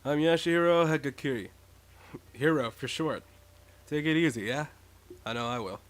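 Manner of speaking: laid-back stoner voice; easygoing, lazy stoner. Acted. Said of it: "somewhat of a stoner voice".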